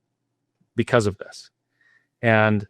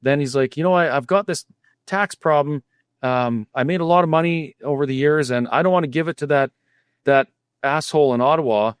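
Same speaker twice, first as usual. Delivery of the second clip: lightly voiced Swiss accent, higher, laughing at the start; a failed try at a Swiss accent, raised voice; mock Swiss accent; 4 semitones higher than usual. Retelling the Swiss donor's offer of help, weak mock Swiss accent. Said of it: "I can't do a Swiss accent".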